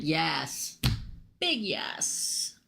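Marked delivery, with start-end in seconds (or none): 1.4-2.6 whispering. Real, not acted. Emphatic whispered confirmation.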